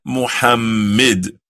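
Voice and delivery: Muhammad with a weak, short middle; Muhammad said sloppily; wrong pronunciation. Shown as a demonstration.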